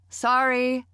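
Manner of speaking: loud, high call. A narrator's reading. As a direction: call it across the house. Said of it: "I called".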